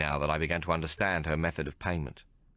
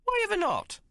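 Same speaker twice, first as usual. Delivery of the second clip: sharp, high indignant question; demanding Maggie. A narrator's reading. Maggie demanding why the tailor refuses. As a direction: demand an answer. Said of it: "Maggie demanded to know".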